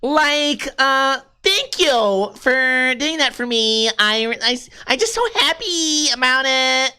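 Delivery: put-on slow, stretched-out rich Californian accent. Rich Californian gushing thanks and fretting over money, affected rich accent. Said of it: "How do you do a rich accent?".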